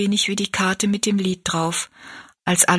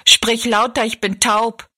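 put-on louder, raised old woman's voice; deaf old woman; 3 semitones higher, 4 dB louder than usual. Deaf old woman tells Rosalie to speak up, loudly. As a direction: call out like someone who can't hear.

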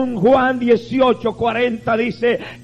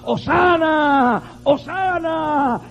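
slow, drawn-out Hosana, higher in pitch; crowd cheering; 5 semitones higher, much slower than usual. Retold or imitated. The crowd on Palm Sunday, slow, high cheering. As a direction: cheer it like a crowd welcoming a king. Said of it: "la gente gritaba".

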